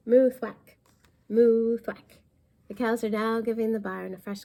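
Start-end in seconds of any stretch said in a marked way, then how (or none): 0.1-2.2 belted-out animal noises, louder; loud moo thwack. Acted. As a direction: shout the cow painting sounds. Cows painting noisily, sound effects.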